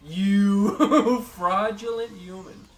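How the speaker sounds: slow, high, loud laughing jab; laughing insult. Real, not acted.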